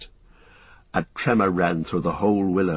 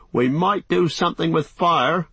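higher, excited suggestion; eager idea; 7 semitones higher than usual. Acted. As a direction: blurt out the bright idea. Sam's sudden idea.

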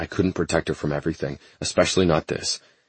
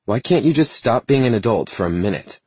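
frustrated; 7 semitones higher, 4 dB louder than usual. Acted. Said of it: "replaced with frustration".

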